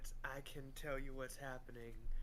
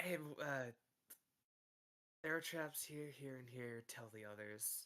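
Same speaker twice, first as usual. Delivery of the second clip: soft, hushed half-whisper under the breath; 6 dB quieter than usual. Warning another character in character about traps nearby: half-whispering. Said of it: "he's just gonna kind of whisper to Bowen".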